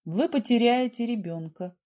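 ordinary delivery

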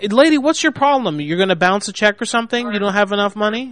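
mock her money troubles; taunting. Real, not acted. Manager taunting loudly.

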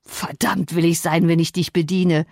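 understated grumbling refusal, stress on will; a touch of a sullen young man's growl; mild growl. Acted. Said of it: "grollte der Bursche". (leicht grollende Weigerung)

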